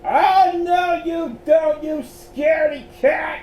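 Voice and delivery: high, loud bossy telling-off; scolding shout. A narrator's reading. Helena grabs fleeing Miles, high scolding shout. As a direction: shout it high to halt a runaway.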